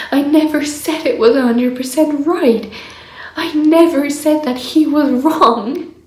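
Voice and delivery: from muttered disbelief up to an indignant rant; building exasperation. Retold or imitated. Retold angry outburst at partner.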